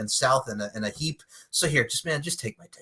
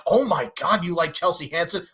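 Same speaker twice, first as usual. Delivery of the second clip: raised-pitch imitation of fake surprise; mock shocked; 4 semitones higher than usual. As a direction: act astonished at old news, hammed-up. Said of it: "be, like, shocked".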